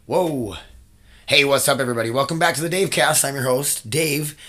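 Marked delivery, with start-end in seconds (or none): 1.3-4.4 a bit louder, clearer announcer read; podcast host voice. Shown as a demonstration. Host showing his clearer podcast voice, a bit louder. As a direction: project it for the listeners. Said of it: "See how I talk ... a little louder".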